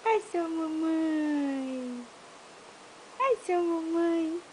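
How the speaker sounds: sweet coo for a little one. Real, not acted. Mother cooing to baby.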